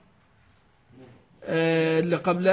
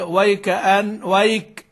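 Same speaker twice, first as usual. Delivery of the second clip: slow recited demo; slower than usual. Shown as a demonstration. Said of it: "هو ما يقرأ إيه؟".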